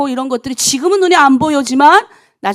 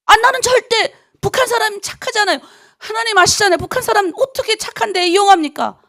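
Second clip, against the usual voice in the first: protesting to God; 8 semitones higher than usual. Retold or imitated. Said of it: "저한테 말씀하신 거예요".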